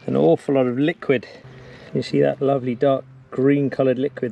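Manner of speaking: ordinary delivery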